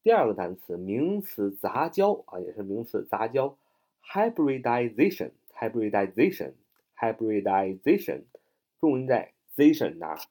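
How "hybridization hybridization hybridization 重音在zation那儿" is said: "hybridization" with the weight landing on zation; stress on zation. Shown as a demonstration. Teacher shows learners where the stress falls, stress on zation.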